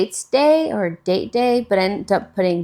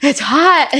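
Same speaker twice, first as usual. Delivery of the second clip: high, loud, slow laughing whine; laughing complaint; 9 semitones higher, 5 dB louder, slower than usual. Retold or imitated. Retelling the walk back to a friend, laughing. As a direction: laugh through the heat complaint. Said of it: "I was like".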